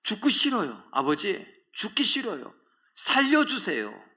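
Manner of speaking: high, pleading cry to a father; anguished begging prayer; desperate plea. Acted. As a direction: beg for your life, drawing out the last word. Jesus' pleading prayer voiced.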